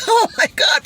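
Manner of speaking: very high, loud mock shriek; mock ride shriek. Imitating a rider at the drop, a high, loud mock shriek. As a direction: shriek it like the car just dropped. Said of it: "You got".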